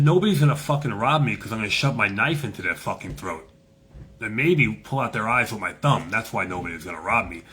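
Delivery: retold warning, firm with little change in pitch; tough, unafraid threat. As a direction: set the tone with a fearless mock threat. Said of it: "Like that, just like that".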